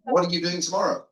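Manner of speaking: high, loud, wiry impersonation; piercing impression of an eminent scholar; Newbigin's penetrating accent. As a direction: pitch it up and project, mimicking a penetrating accent. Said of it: "penetrating accent, he said".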